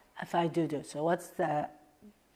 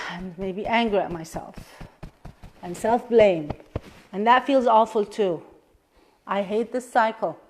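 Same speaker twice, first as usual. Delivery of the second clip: steady, measured tapping-round voice; guided tapping script; 3 dB louder than usual. Acted. Coach guiding a client through a tapping round, steady and measured. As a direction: lead the listener through each statement.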